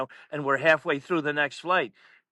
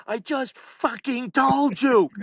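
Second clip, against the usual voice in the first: loud, high, drawn-out exasperation; fed up; 8 semitones higher, 4 dB louder, slower than usual. Retold or imitated. Announcer to pestering coach, fed up. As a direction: imitate someone who has had enough. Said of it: "Dave had enough".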